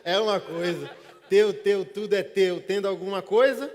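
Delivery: teu teu gritado bem alto e mais agudo; exclamação alta. Real, not acted. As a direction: proclame com força e ironia. Pregador repete ironicamente, gritando. (o pregador grita ironicamente para a congregação)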